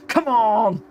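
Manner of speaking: usual speaking voice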